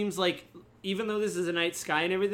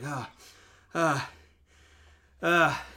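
acted gasps; 3 dB louder, much slower than usual. Game master voices a character being dusted off, gasping. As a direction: separate short gasps, getting louder.

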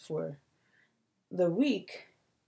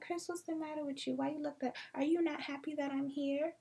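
higher, softer nagging mom voice; higher mock mom; 7 semitones higher, 5 dB quieter than usual. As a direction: parody her hurt questioning. Mimicking mom's questions.

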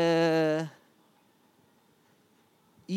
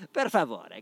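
casual Italian; 4 semitones lower, slower than usual. Shown as a demonstration. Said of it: "para as pessoas pensarem que eu sou italiano".

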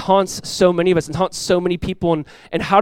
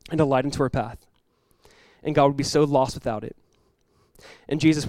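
prayer. Acted. Pastor leads congregation in prayer.

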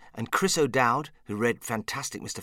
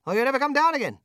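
much higher, loud yelled command; shouting; 13 semitones higher, 9 dB louder than usual. Retold or imitated. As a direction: yell up at the floating Oompa Loompa. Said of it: "I stood there shouting".

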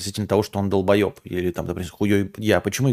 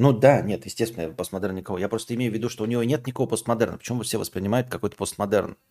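ordinary talk

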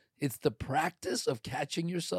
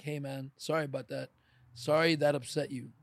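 mean every word of it; plain sincere apology to a stranger. Shown as a demonstration. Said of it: "they see I'm genuine".

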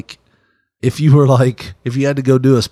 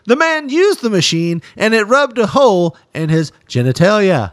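mock news conference; 7 semitones higher than usual. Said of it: "That's the way they do the news conference".

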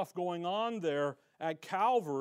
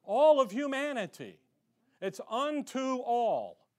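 excited near-shout; 5 semitones higher, 5 dB louder than usual. Real, not acted. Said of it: "I'm not yelling".

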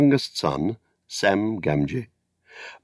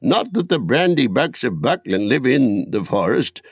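put-on old Gaffer; 2 semitones higher than usual. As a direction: hold forth like a proud old gardener at the inn. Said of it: "said the Gaffer".

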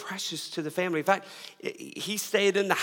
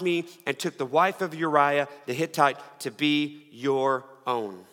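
steady, declaiming Bible reading; a preacher reading the prophet's words to the congregation; scripture reading. Acted. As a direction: read the verses with weight. Reads scripture aloud.

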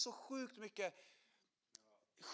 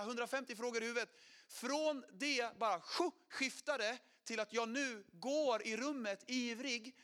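excited recollection; 4 semitones higher, 3 dB louder than usual. Real, not acted. Recalls emotional turning point.

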